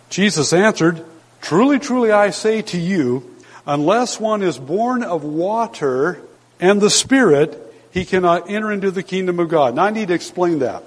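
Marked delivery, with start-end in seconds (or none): 1.4-9.8 emphatic scripture reading. Acted. Quoting Jesus emphatically.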